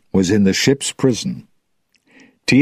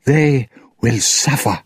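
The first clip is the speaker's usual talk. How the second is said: restrained angry threat, pitched up; 6 semitones higher than usual. A narrator's reading. Tia Dalma on her captors, restrained angry vow. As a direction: vow revenge with a touch of anger. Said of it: "Tia Dalma said angrily".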